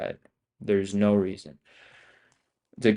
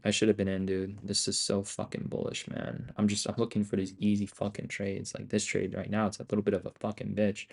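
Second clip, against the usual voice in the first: muttered regret; 7 dB quieter than usual. Real, not acted. Streamer regretting a missed trade, muttering softly. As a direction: grumble it under your breath.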